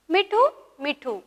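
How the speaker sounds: "mithu mithu", first rising, second falling; parrot call. Shown as a demonstration. Teacher showing pupils the parrot's sound, singsong call. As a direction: imitate a talking parrot. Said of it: "चला तुम्ही पण काढा".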